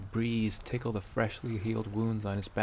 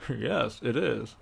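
laughing; slower than usual. Acted. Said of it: "laughed Bracknell".

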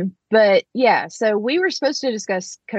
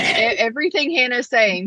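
excited squeal; 5 semitones higher than usual. Retold or imitated. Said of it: "They're like".

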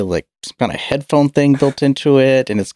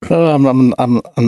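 tripping over words; halting, stumbling start; stuttering; 2 semitones higher, 4 dB louder than usual. Real, not acted. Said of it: "I apologize for my stuttering and mumbling".

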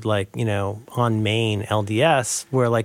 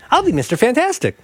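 mock superhero; 12 semitones higher, 3 dB louder than usual. Jokingly claiming the superhero name.

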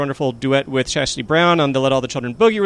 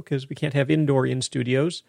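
ordinary delivery

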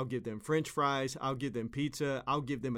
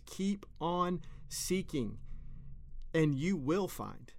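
slow, higher, emphatic scripture quote; 4 semitones higher, slower than usual. Retold or imitated. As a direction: press each word like a promise. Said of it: "where Jesus himself says".

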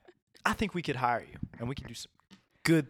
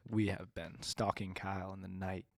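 low, quiet, lightly voiced gangster menace; low sinister gang boss; menacing gangster; 3 semitones lower, 3 dB quieter than usual.

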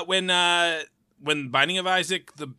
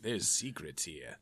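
villain voice; 5 semitones lower than usual. Retold or imitated. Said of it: "and I was like".

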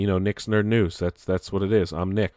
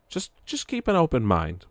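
emphatic plea; 8 semitones higher than usual. Real, not acted.

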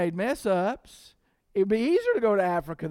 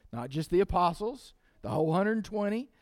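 usual speaking voice

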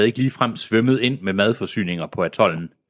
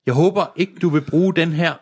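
laughing rough sailor; 7 semitones higher than usual. Acted.

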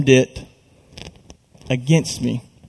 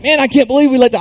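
high-pitched retold disbelief; dismayed teammate; 10 semitones higher, much faster than usual. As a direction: imitate a buddy reeling from a late goal. Retold teammate reacting to late goal.

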